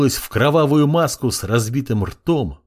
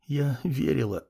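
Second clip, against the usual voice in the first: much softer faint breath of a word; weak whisper; 2 semitones higher, 8 dB quieter than usual. A narrator's reading. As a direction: barely whisper it, exhausted. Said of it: "прошептала она". (слабый шёпот)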